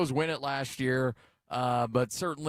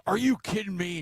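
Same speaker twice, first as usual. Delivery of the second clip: mock yell; 9 semitones higher, 3 dB louder than usual. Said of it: "and just screams it out".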